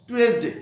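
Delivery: "টুয়েসডে" as "tu-es-de", with a short final e; Bengali pronunciation. Shown as a demonstration. Teacher shows how Bengalis say it, "টুয়েসডে" as "tu-es-de". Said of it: "যারা বাঙালি".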